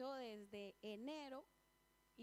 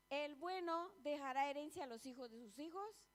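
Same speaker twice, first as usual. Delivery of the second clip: louder, stressing bueno; emphatic scripture reading; 2 semitones higher, 5 dB louder than usual. Real, not acted. Preacher repeating the proverb to her congregation, louder and emphatic. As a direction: proclaim the verse to the church.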